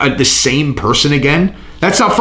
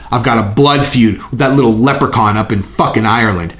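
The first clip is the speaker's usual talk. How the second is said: lightly voiced trash-talking fighter calling out a rival; a hint of Dustin threatening Conor on the mic; imitating Dustin. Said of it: "I was doing an imitation of Dustin".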